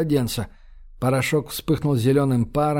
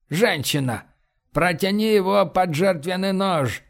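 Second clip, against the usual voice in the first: solemn command; 4 semitones higher than usual. Acted. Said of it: "торжественно приказал он".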